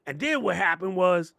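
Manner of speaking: very high, squealy gossip voice; shrill mock chatter about Bridgerton; mock gossiping caller. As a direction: gush about last night's episode. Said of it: "Be like".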